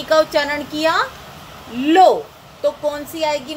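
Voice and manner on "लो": लो said loud and clear for the class; syllable demo. Shown as a demonstration. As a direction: call out लो with a long open ओ. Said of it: "लो, यानी ओ की मात्रा". (कक्षा में लो ज़ोर से बोलना)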